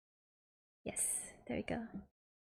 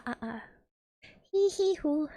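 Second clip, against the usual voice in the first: vocal warm-up; 6 semitones higher than usual. Real, not acted. Warming up voice before singing.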